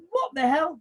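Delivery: high, loud incredulous outburst; disbelief. Retold or imitated. Retelling the boards fiasco to mates, high incredulous cry. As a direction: throw it up in stunned disbelief.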